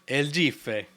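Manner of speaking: mock Spanish accent on El gife, ZHEE-feh. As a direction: tease it out in a put-on Spanish accent. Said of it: "You don't have a Spanish accent".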